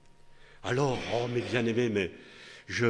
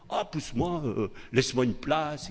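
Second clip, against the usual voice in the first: put-on childish pushing; 4 semitones higher than usual. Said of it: "comme on fait les enfants".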